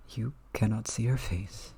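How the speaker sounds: lightly voiced hushed granny; hint of an old woman confiding; old lady voice. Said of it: "this is gonna be old lady voice and whispering".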